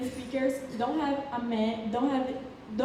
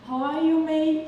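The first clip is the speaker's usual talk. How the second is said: louder Australian "mate" greeting; 4 semitones higher, 5 dB louder than usual. Shown as a demonstration. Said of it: "they speak a lot of times mate".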